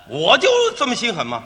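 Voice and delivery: defiant comeback. Acted. Straight man answering partner's "heartless" jibe, defiant.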